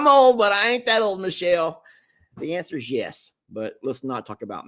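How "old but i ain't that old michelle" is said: repeating his retort louder while laughing. Real, not acted. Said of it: "repeats line".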